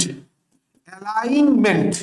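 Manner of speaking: অ্যালাইনমেন্ট slowly, with a long "laing"; drawn-out pronunciation. Shown as a demonstration. Teacher sounding out the spelling, drawn-out pronunciation. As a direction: stretch the middle of অ্যালাইনমেন্ট, then add "ment". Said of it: "উচ্চারণটা হচ্ছে অ্যালাইন".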